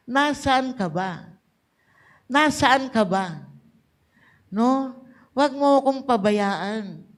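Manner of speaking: quick, pleading cry to the Lord, lightly acted; mock anguished prayer. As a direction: plead with God as one who feels abandoned. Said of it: "sinabi natin sa Lord". (banayad na pagsusumamo sa Panginoon)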